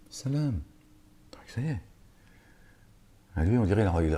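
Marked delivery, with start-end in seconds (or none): 0.1-0.6 high soft salam. Retold or imitated. Angel greeting peace again. 1.3-1.8 whispered. Retold or imitated. Calm after greeting.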